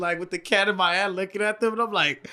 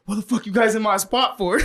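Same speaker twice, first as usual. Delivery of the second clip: mock shout; 4 semitones higher than usual. Homie popping out of bushes.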